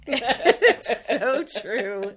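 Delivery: slow, loud words through laughter; laughing agreement. Real, not acted. Co-host agreeing about free design software, laughing. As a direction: agree while still cracking up.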